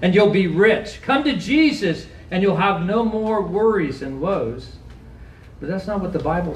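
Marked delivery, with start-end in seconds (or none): 0.0-4.8 mock false promise. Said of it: "there are lies that are told".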